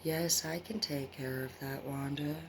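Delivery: mock slow, drawn-out reply; slow thinker. Imitating a slow person answering Wanda, drawn out. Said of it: "if you think slow".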